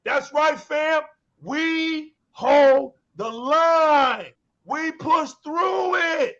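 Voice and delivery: slow, drawn-out Viking battle cry; half-hearted Viking warrior rallying troops. Pretend. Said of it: "put your Viking voice on".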